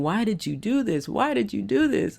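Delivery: high, whiny mock complaint from aching muscles; lightly voiced muscles, a hint of a mock scream; complaining muscles. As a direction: let your sore body nag at you, rising. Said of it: "every muscle in my body was screaming".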